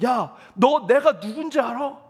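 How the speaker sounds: a mock angry yell, slowed, each word leaned on; mild mock yell from the other driver; retold yelling driver. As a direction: imitate the rude driver shouting down the window. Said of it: "막 소리를 지르면서".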